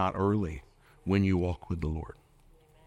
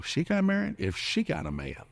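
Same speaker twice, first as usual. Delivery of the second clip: mock jealous single; 10 semitones higher than usual. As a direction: sneer at the friend's wedding like a jealous single. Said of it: "And you go".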